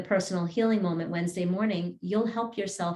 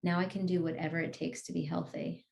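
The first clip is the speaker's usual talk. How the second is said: soft guided affirmation; 7 dB quieter than usual. Acted. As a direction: breathe it out gently to the listener.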